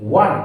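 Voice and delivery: ওয়ান said as wan, starting with a wa sound; pronunciation demo. Shown as a demonstration. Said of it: "সম্পূর্ণভাবে উচ্চারণ করব". (ওয়ান উচ্চারণ করে দেখানো)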